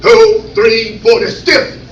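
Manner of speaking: clipped, stiff cadence; stiff Air Force count. Shown as a demonstration. Comic demoing the Air Force drill, stiff count. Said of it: "In the Air Force".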